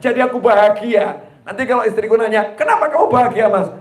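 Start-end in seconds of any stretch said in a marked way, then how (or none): 2.6-3.7 higher, lightly voiced puzzled wife; mock wife asking. Wife puzzled why her husband is happy, lightly voiced. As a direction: ask it up high like a curious wife.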